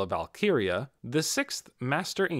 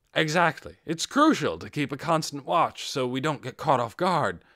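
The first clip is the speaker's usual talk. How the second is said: insincere agreement; 4 semitones higher, 5 dB louder than usual. Acted. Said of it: "his expression made it clear he didn't think that was true".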